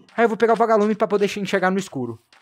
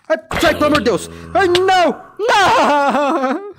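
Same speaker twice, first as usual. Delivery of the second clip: loud, high panicky cries, fast; panicked; 7 semitones higher, 4 dB louder than usual. Real, not acted. Player attacked in the game, loud high panicked yelps. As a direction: yelp and beg it to go away.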